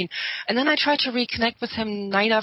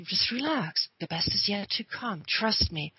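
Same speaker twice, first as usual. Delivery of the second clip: softer, gently acted soothing; calming reassurance; 3 dB quieter than usual. Telling the spooked friend to wait, calmly reassuring. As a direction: reassure quietly, stepping down in pitch. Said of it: "you calm your friend down".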